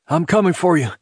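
high, urgent yell. A narrator's reading. Man calls up to trapped woman before climbing, yelling. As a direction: yell a promise of rescue up to them. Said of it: "and he yelled".

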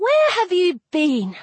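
high, sharp-rising indignant question; indignant demand. A narrator's reading. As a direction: demand an answer, pitch jumping up. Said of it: "I demanded".

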